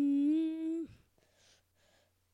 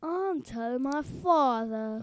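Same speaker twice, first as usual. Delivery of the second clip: Draco Malfoy. Pretend. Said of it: "do your Draco Malfoy".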